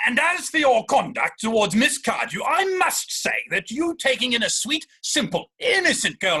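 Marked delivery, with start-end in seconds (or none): 0.1-4.5 indignant outburst. Acted. Jack rebukes Algy's conduct.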